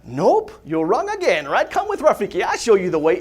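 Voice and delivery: high, teasing baboon voice; lightly voiced sly old baboon; hammed-up Rafiki coaxing; playful Rafiki. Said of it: "he's like".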